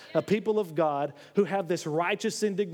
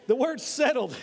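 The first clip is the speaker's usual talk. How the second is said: emphatic call; 5 semitones higher, 3 dB louder than usual. Real, not acted. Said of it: "Now, I want you to look at this".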